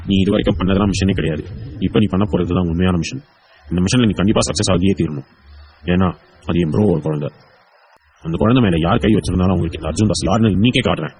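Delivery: low, determined self-address; grim vow. Acted. Man vows to rescue bro's child, low grim resolve. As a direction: swear it to yourself, pitched low. Arjun vows to find kidnappers.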